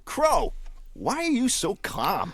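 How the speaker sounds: blue jay voice. Acted. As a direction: play a cocky blue jay.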